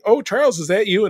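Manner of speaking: high, surprised mock Scottish accent; hammed-up Scottish accent, rising in surprise. Moira startled to hear Charles, in a mock Scottish accent. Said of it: "In her big Scottish accent".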